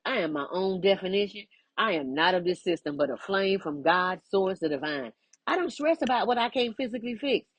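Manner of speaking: calm declaration of self-worth; spoken affirmation. Acted. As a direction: state each line as a vow to yourself.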